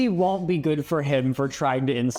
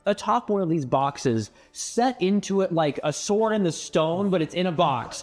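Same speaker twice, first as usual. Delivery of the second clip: scene narration; 3 semitones higher than usual. Acted. GM describes the sword.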